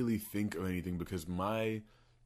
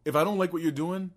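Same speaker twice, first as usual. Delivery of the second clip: higher and louder mock defiance; defiant; 5 semitones higher, 3 dB louder, faster than usual. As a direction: declare you can walk away any time. Voicing his defiant inner stance.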